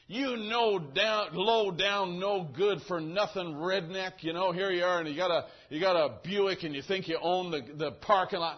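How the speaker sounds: hammed-up scolding; mock tirade. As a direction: rant like an irate driver. Acting out the woman's hollered insults.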